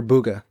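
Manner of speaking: Booga said as BOO-guh; tentative pronunciation. Real, not acted. Podcaster trying an unfamiliar attack name, tentative Booga as BOO-guh. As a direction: stumble onto Booga, rhyming with cougar. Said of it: "Bagua, Bagua".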